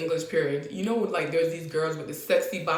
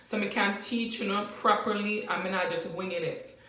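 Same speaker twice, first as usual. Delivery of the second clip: Jamaican patois. Shown as a demonstration. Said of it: "what I said is".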